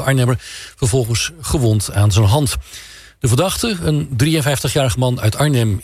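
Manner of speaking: measured regional radio news bulletin; news read. Acted. Newsreader briefs the radio host on Gelderland news, news read. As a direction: read it out as a newsreader, stressing key words.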